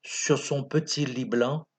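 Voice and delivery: measured, declaimed sentimental verse; lightly theatrical poem reading; poem recitation. Acted. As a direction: recite it line by line, with pauses.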